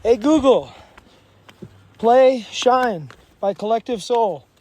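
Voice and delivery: loud, slow, spelled-out command to a smart speaker. Pretend. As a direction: call out clearly to the device. Jokingly commands voice assistant.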